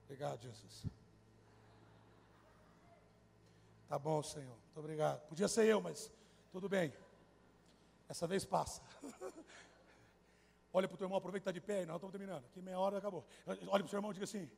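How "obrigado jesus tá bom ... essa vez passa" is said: grudging prayer. Acted. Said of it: "A oração é".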